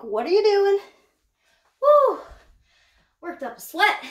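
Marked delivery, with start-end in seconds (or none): 0.0-0.8 voicing the snake. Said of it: "She's like". 1.8-2.2 high, loud whoop of effort; real whoop after lifting; relieved whoop. Real, not acted. Relief after heavy lift.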